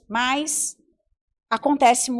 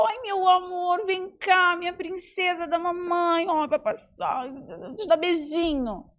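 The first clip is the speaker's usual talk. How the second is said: tender mother comforting; 3 semitones higher than usual. Retold or imitated. Mother soothing her fallen daughter, tender and coaxing. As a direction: coo it like soothing a princess. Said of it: "eu falava".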